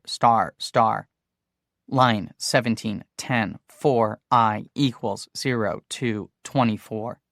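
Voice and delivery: slow measured code dictation, fading; reading code aloud. A narrator's reading. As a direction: dictate each line slowly. Reading BASIC code listing.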